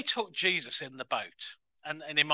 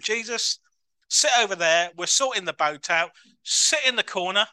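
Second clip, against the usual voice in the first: louder, brisk bossing aside; bossy; 3 semitones higher, 6 dB louder than usual. Retold or imitated. Disciples telling Jesus to sit aside, mildly bossy. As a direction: shoo him to the corner.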